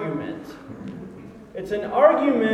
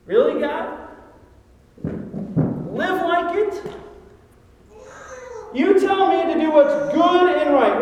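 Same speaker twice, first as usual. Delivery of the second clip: arguing with God; 4 semitones higher, 3 dB louder than usual. Acted. Congregation voiced arguing.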